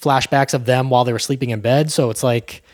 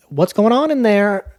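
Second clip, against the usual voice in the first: put-on worried old mother; 7 semitones higher than usual. Old mother knocking at door.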